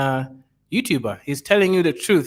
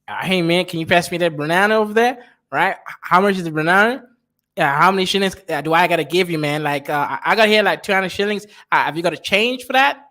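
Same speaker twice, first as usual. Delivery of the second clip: Black American accent; 4 semitones higher than usual. Shown as a demonstration. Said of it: "Black American accent".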